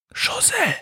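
leise gehauchter Ruf der Hexe; flüsternd. A narrator's reading. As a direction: den Namen vorsichtig flüstern. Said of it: "flüstert Befana". (leises Flüstern)

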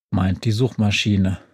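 plain reading voice

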